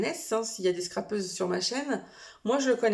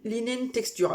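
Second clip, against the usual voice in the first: English words with a French accent; French-accented English label reading; slower than usual. Real, not acted. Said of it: "excusez-moi pour mon accent".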